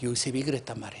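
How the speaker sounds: soft, unvoiced whisper.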